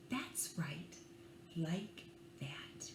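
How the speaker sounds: soft, coaxing whisper. Acted. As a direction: hush them into snuggling. Coaxing children to snuggle.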